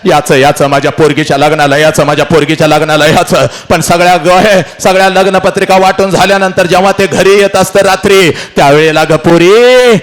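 fast, urgent storytelling to a crowd; rousing emotional speech; impassioned oration. Acted. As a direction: drive the story hard, stretching the cries to the daughter.

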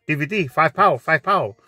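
lightly voiced Chinese DVD seller, clipped sales call; a hint of a street vendor hawking DVDs; mock DVD seller accent. The DVD man calling out his price in a light put-on accent.

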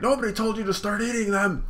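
high, loud mocking character; mocking Cracker. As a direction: throw it back at him, high. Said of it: "he's like".

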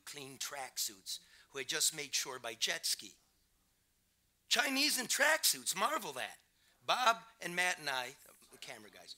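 measured read-aloud with punched key words; story narration. A narrator's reading. Reporter reading his border story aloud, measured narration. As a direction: read it out to an audience, savoring the phrases. Reads own book aloud.

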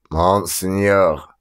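put-on slow, lightly hoarse old beggar; hoarse unpleasant voice. Old man with a knapsack begging coins, slow hoarse voice. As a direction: drag the words out like a rasping old soldier. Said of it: "хриплый неприятный голос".

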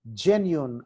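జెన్యూన్ with the stress on "jen"; జెన్యూన్, strong start, falling end. Shown as a demonstration. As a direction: hit the first syllable of జెన్యూన్. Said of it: "జి దగ్గర".

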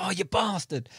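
half-swallowed retold swear; quiet shocked cursing to himself; muttered curse. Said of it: "I was like".

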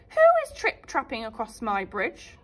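a hint of a gruff troll growl. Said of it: "growled the troll".

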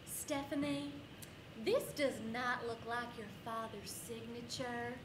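slow, stern teacher accusation; a hint of a suspicious teacher. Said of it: "Missus Truman opens with".

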